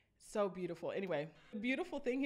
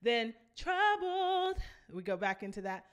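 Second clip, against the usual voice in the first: slow trail-out; much slower than usual. Shown as a demonstration. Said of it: "that's how we're gonna trail it out".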